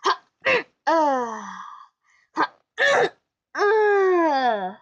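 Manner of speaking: choppy throat-clearing laugh, imitating mom; a lightly voiced mom laughing; mom's laugh imitation. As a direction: do mom's odd little ha-uh laugh. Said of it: "She goes".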